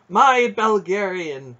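high, loud, slow triumphant cry; ringing cry of proud triumph; soaring exultation. A narrator's reading. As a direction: exult over the name, stretched out. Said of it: "with a soaring exultation".

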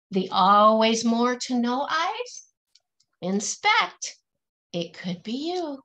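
rhythmic, lilting picture-book verse; reading to children. Acted. Teacher reading a rhyming picture book aloud to her class, lilting and rhythmic. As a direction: bounce each rhyme for the kids, then land the refrain.

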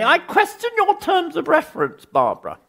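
put-on a pompous English critic looking down his nose, in English accent. Smart-ass critic questioning Barbara at the crit, in pompous English accent. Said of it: "I can only do an English pompous accent".

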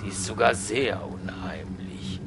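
low creeped-out whisper. Real, not acted. Gamer spooked by the eerie music, whispering. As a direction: hush it like you're scared.

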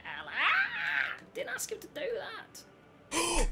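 frustrated yell. Real, not acted. Player misses, gamer yells.

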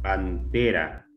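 "Pantera" slowly parted, pan-te-ra; syllable by syllable. Shown as a demonstration. Teacher searching for the stressed syllable, syllable by syllable. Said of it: "A ver, tónica".

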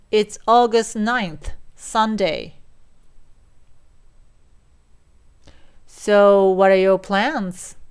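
slow English dialogue lines with feeling, for repeating; slow, expressive repeat-after-me delivery; expressive model reading. Shown as a demonstration. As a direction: act out each line slowly for learners to echo. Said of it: "できるだけ感情を込めていきますよ".

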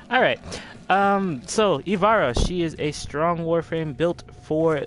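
loud, high burst of energy; excited. Real, not acted. Restarting the showcase, pumped up.

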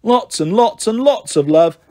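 gushing sign-off. Acted. Dan signing off a letter to Ellie, gushing. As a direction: sign off with lavish affection.

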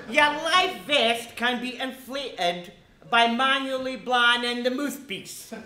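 lightly put-on cabin crew announcement; flight attendant announcement. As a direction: read it like a bored flight attendant. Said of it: "let me do the life vest".

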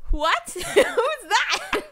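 a startled laughing what; loud laughing mock surprise. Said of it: "I'm like".

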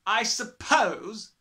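high, loud and slow; domineering headmistress. A narrator's reading. Headmistress addressing her class, domineering. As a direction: announce it loudly, drawing it out.

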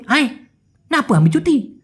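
Malaysian slang. Retold or imitated. Senior asking about leave, in clipped Malaysian slang. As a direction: toss out the question in Malaysian slang. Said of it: "আর ও বললো কি".

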